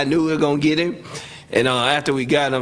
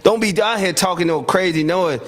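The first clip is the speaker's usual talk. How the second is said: higher, taunting; retold trash talk; 6 semitones higher than usual. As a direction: rub it in his face. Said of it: "I said".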